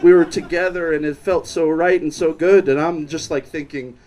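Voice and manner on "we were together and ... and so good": lower, rambling imitation of a drunk; incoherent drunk. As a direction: stumble through it, restarting like an incoherent drunk. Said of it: "very incoherent and said".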